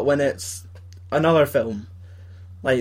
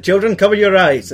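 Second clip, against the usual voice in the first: put-on louder, commanding call to kids; stern mock warning; 6 semitones higher, 8 dB louder than usual. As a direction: announce it like a solemn order. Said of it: "he's like".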